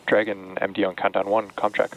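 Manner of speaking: crackly radio comm check; astronaut radio. Real, not acted. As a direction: speak as if over a headset radio.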